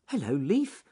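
high rabbit voice, rising at the end; Ernest Fluffy Rabbit. Acted. Rabbit answering a leaf, high-voiced. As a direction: greet it in a high, uncertain pitch.

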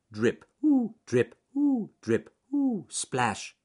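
rhythmic drips with loud high squeals; Ernest Fluffy Rabbit. Acted. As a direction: squeal each ooh as you hop along. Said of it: "as he hopped along the path".

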